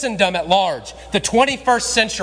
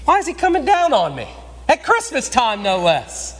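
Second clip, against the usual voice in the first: frustrated listener; 6 semitones higher than usual. Retold or imitated. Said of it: "he might have been frustrated".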